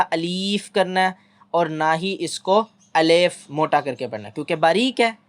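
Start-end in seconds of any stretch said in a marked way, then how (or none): 0.0-1.2 अलीफ drawn out slowly on the ee; teacher warns against stretching; wrong stretched alif. Shown as a demonstration. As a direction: drag the ee of अलीफ. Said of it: "ना मोटा ... खींचना है ज़्यादा".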